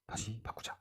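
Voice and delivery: whispered aside, no voice. Retold or imitated. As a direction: breathe the words like a secret. 개헌 결심 속삭임. (속삭이듯 말하기)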